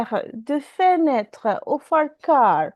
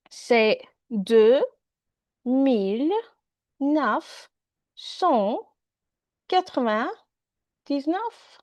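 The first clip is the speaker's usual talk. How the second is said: each number separated by pauses, slow; slowly, word by word; slower than usual. Shown as a demonstration. Donald saying his house number slowly to the policeman, word by word. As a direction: spell it out slowly for someone who barely understands. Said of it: "Parle slow, s'il te plaît".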